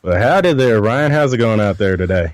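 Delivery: light hammed-up Texas drawl, folksy greeting; a cowboy howdy in a mild Texas twang; put-on Texas drawl. Cohost greets the host in a mock Texas drawl. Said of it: "I can't do this the rest of the show".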